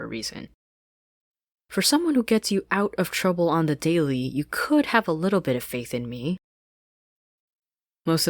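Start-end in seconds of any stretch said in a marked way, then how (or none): 1.7-6.4 loud, wounded retort; angry Sasha. Acted. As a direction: demand her trust.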